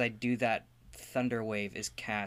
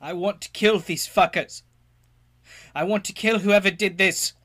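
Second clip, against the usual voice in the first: angry; 6 semitones higher, 10 dB louder than usual. Acted. Player character raging at attackers.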